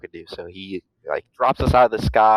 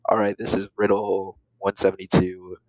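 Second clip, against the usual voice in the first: pilot radio voice. Retold or imitated. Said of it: "just kinda whispering, whispering in the microphone".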